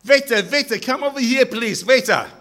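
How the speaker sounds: put-on high, loud Jewish-accented call. Rabbi summoning a Chinese waiter, calling out in a Jewish accent. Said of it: "in his Jewish accent".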